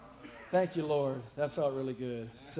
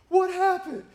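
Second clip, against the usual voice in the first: higher, louder, through laughter; laughing question; 10 semitones higher, 8 dB louder, slower than usual. Retold or imitated. Retelling being asked upstairs, laughing question. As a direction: ask it while barely holding in laughs. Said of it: "and I was like".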